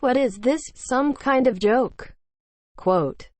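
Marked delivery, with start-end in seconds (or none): 0.0-2.1 酒保拖长声音，半开玩笑地喊；酒保高声慢吼; bartender yelling. Acted. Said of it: "The bartender yells".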